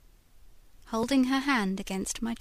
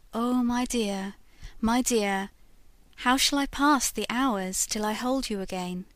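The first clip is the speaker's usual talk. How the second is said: rapturous longing; 4 dB louder than usual. Acted. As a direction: pour out love to the portrait. Lover addresses portrait in rapture.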